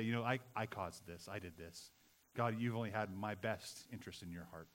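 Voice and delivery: low, soft admission to God; humble confession. Acted. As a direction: own up quietly, dropping the voice. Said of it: "you've got to humble yourself".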